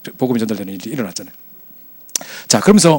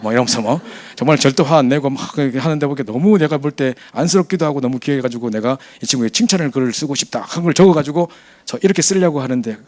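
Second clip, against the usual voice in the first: normal talking voice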